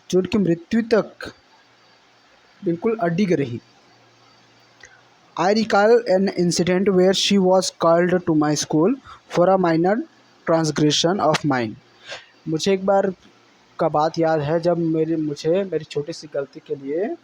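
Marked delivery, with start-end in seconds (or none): 5.4-11.7 slow, deliberate reading aloud of the English passage; slow text reading. Shown as a demonstration. Teacher reading the textbook passage to students, slow and deliberate. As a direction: read each phrase out slowly for the class.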